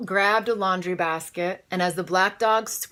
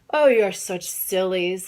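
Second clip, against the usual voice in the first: louder scoffing tease; teasing; 6 dB louder than usual. Acted. Small teasing her hiding family, loud and scornful. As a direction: laugh off their fear. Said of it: "said Small".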